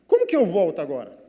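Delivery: quick, loud exasperated question; upset outburst. Retold or imitated. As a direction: fire it out in acted dismay. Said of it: "eu fiquei mais chateado".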